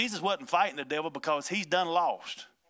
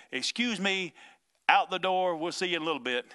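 lightly pitched-up brush-off; mock-polite dismissal; 4 semitones higher than usual. Preacher as Jesus putting mourners out of the house, mock-polite dismissal. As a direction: breezily send the crowd out, a little higher. Replays Jesus sending the crowd out.

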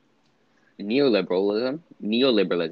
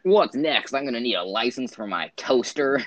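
politician quote impression; 4 semitones higher, 3 dB louder than usual. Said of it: "my favorite quote of any politician".

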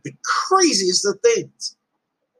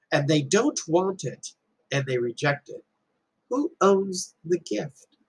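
calm explanation; 2 semitones higher, 4 dB quieter than usual. Retold or imitated. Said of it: "And Buddha goes".

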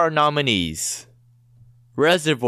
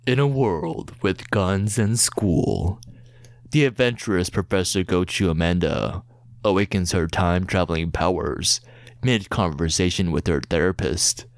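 movie trailer voice; 4 semitones lower than usual. Acted. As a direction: read it like an epic film trailer. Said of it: "read it in a movie trailer voice".

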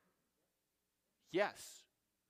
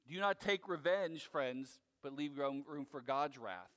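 scripture reading; 6 semitones lower, 4 dB louder than usual. Acted. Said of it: "as what Paul puts it".

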